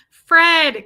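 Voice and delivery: high, loud embarrassed mock scolding; laughing protest. Wife chiding him for announcing her to staff, laughing.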